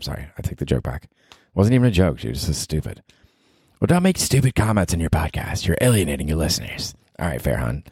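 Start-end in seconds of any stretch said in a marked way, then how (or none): 3.8-6.9 put-on scolding girlfriend. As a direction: play the girlfriend telling him off. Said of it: "that little skit has ended".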